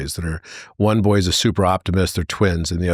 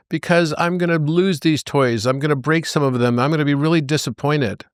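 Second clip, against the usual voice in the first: put-on whiny crying boy; 6 semitones higher than usual. Crying pessimist boy voiced.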